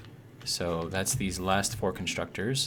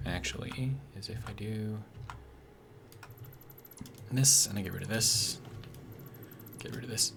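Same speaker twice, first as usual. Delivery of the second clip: holding back hiccups; suppressing hiccups; 6 dB quieter than usual. Real, not acted. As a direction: talk through hiccups. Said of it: "Sorry, hiccups again".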